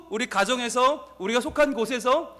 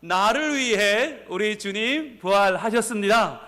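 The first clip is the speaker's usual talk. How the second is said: slow, raised-voice proclamation; big voice; slower than usual. Real, not acted. Pastor has congregation repeat it audibly, calling out big. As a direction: call it out so everyone hears, stretching each phrase. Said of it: "큰 목소리로 다시 한번".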